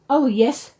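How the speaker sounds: excited cry. A narrator's reading. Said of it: "cried Cuddlepie".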